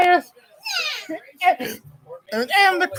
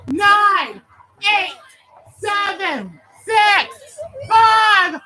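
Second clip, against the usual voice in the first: new year countdown crowd; slower than usual. Real, not acted. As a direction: build the countdown to a yell.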